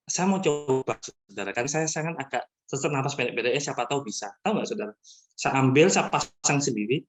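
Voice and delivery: normal talking voice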